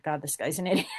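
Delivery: laughing through a dismissive thought; laughing scorn. Real, not acted. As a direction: chuckle as you call him an idiot. Mocking the ranting man.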